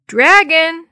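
loud, high call for the cat; a loud, high call into the back. A narrator's reading. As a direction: call the cat from across the garage. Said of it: "Dee Dee called".

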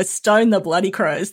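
slow, loud Australian accent; broad Aussie accent. Shown as a demonstration. Guest offering the expression as an answer, Aussie accent. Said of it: "my best real Aussie accent".

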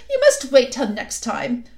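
lightly voiced queen, coaxing and sweet; a hint of a sly, honeyed queen; queen coaxing the boy gently. A narrator's reading. Queen speaks.

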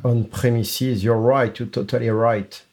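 put-on a touch of English accent on the English words; English accent, lightly put on. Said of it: "Avec l'accent".

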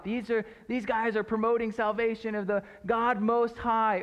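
mock yell, high-pitched and sustained; imitated yelling. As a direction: lightly shout it like a girl calling after passers-by. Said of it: "slave girl who continues to yell out".

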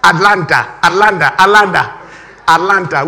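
ATLANTA in an American accent, middle T softened; imitated American pronunciation of ATLANTA. Shown as a demonstration. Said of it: "We will say Atlanta".

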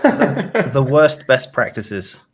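laughing through the words. Real, not acted. Laughing while naming talk.

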